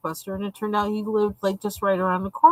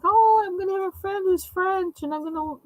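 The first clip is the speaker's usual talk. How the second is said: high, eager daydreaming, much higher; dreamy excitement; 7 semitones higher than usual. Retold or imitated. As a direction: gush about the French dream. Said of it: "all these things, like".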